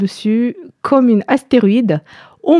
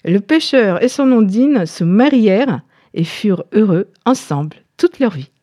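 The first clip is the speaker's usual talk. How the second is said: story narration; 2 semitones lower than usual. A narrator's reading. Tells the fairy tale.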